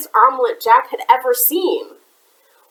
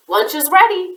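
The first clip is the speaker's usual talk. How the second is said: bright, higher call; a giant calling out lunch, higher; cheerful; 8 semitones higher than usual. A narrator's reading. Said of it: "he said cheerfully".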